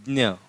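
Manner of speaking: ज्ञ as "dnya"; demonstrating ज्ञ. Shown as a demonstration. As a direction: begin ज्ञ with d-n-y, not g. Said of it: "इसको क्या कहेंगे?".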